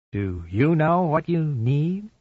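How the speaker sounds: slow, creepy phone stalker; drawn out to unsettle her; menacing caller. Acted. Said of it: "he asked".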